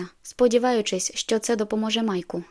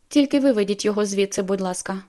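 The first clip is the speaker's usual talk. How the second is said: louder, urgent begging; pleading girl; 4 dB louder than usual. Acted. Counter girl begging Jacob to remove Mike, pleading. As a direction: beg them to take him out. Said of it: "заблагала вона".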